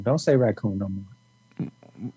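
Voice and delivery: slow warning. Real, not acted. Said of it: "I don't like the way you say raccoon".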